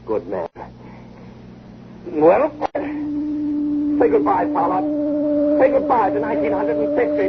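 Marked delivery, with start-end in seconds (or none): 2.1-7.2 warped voice. Acted. Time machine starting up.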